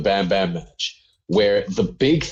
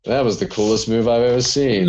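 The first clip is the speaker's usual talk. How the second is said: monotone voice. Retold or imitated. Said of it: "in the most monotone voice he could pull off".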